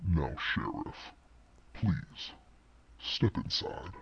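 low, deep voice. Narrating a scene, the speaker voices someone calling the Sheriff inside, deep voice. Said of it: "you just hear this deep voice".

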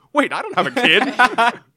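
high, loud, slow, surprised cry. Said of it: "she says".

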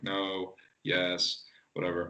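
mock deadpan, flat, level, toneless monotone. Describing a man's polygraph scene in an episode, imitating a flat monotone. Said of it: "this monotone sort of".

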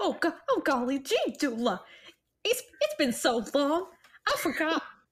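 cartoon mouse voice, slipped into unplanned. Voicing a blushing character in a scene, slipping into a Mickey Mouse voice. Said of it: "I just started Mickey Mouse for a second".

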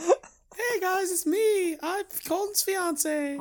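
very high-pitched feminine woman's voice. Joking with the others about an earlier bit, imitating Kaylee's voice. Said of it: "I thought that was Kaylee".

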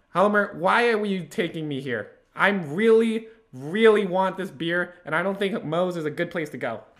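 put-on high young boy voice. Acting out a Simpsons scene at Moe's, the son answers Homer: Bart voice, ten-year-old boy. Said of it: "Bart's 10 years old".

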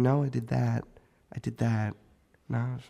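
soft, muttered mumbling to himself. A man reads over a list from his pocket, dumbfounded, mumbling to himself. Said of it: "he's just kind of mumbling to himself".

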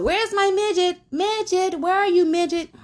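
play-acted, piercing, very high screaming call. Retelling someone shouting across a store: imitating someone screaming out. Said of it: "he's screaming out".

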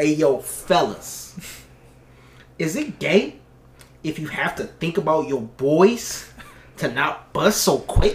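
exaggerated put-on slang accent. Reading a sentence aloud for the listeners in an ultra blackout AR accent. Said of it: "read in that ultra blackout AR accent".

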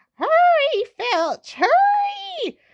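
very high, shrill swooping shriek, drawn-out and hurried. Narrator reads a character urging someone to hurry as dragons escape: shrieking. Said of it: "shrieked Umbridge".

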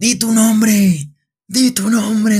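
play-acted, high, slow, drawn-out, repeated shout. Retelling a seminarian who shouts at a girl: imitating someone shouting. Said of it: "le empieza a gritar".

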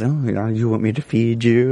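play-acted flirty, suggestive, seductive tone. Recapping a show, the speaker acts out Hera's line, mock-seductive Hera impression. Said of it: "she seductively says".

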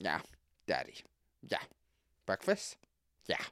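breathy words from the corner of the mouth. Imitating a daughter who talks out of the side of her mouth. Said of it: "talks out of the side of her mouth and goes".

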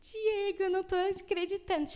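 high, tearful crying, overcome with disbelief. Retelling calling diego about getting the job, imitating own past crying. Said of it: "chorando, chorando".

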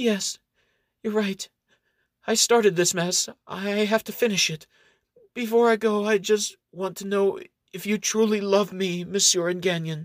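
feeble, frail, weak, high voice. A woman, just revived in a man's arms, turns to him, weak voice. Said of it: "turns to Enganyan with a weak voice".

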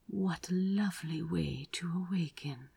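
purred words, low, rumbling, deep in the chest. Narrator reads a man waking beside his lover, purring. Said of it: "he purred".

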